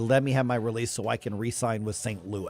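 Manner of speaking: plain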